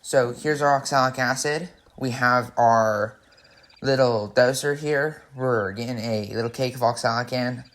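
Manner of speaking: muffled behind a respirator mask. Real, not acted. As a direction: speak through a respirator. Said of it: "kinda muffled voice".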